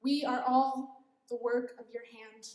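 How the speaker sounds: slow. Shown as a demonstration. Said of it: "I'm gonna read it really slow".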